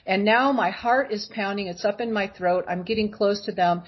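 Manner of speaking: ordinary talk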